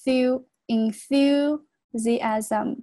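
"thu, enthusiasm" very slowly, th with tongue between teeth. Shown as a demonstration. Teacher showing tongue placement, slow clear th in "enthusiasm". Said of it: "这个T H读作舌头伸出来".

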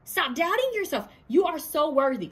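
high, loud hype-man cheer; cheering on a doubting friend, high and loud. Retold or imitated. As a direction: pump them up, high and loud. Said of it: "They're gonna be like".

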